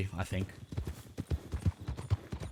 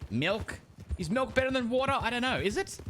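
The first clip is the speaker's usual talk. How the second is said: raspy voice; 13 semitones higher than usual. Acted. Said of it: "The Gaslight Kid".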